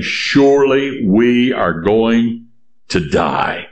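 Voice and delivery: slow, resigned acted despair; voicing people who have given up; despairing Israelites. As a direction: draw it out as if doomed. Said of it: "And they are saying".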